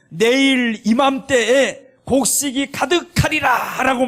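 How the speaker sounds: high, slow solemn prophecy; prophet's proclamation. Retold or imitated. (높고 느린 예언자의 선포)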